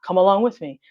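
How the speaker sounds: flat, straight-to-the-point monotone. Shown as a demonstration. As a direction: read it like a dull channel intro. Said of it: "I'm gonna give you my monotone voice".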